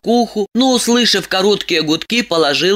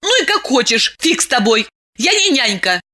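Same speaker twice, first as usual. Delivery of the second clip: angry; 7 semitones higher than usual. Acted. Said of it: "рассердилась Диана".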